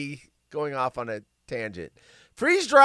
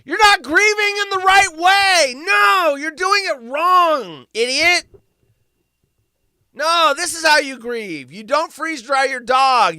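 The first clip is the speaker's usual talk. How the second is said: mocking scold; 9 semitones higher, 8 dB louder than usual. Mocking online critics' lecturing.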